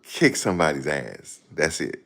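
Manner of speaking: stuttering boxer; lightly mimicked dazed fighter; imitating Meldrick Taylor. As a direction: stammer on "I" then blurt it.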